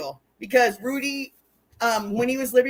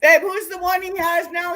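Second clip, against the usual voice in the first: calling out; 6 semitones higher, 4 dB louder than usual. Real, not acted. Calling out to partner.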